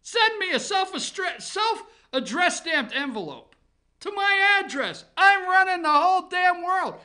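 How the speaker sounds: hammed-up doctor at a briefing; mock Fauci. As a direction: lord it over the press like the boss of the world. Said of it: "he stands up there".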